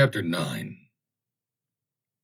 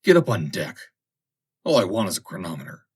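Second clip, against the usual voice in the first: loud curt command; barked order; 6 dB louder than usual. A narrator's reading. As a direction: order him up sharply. Forsyth ordering the machinist.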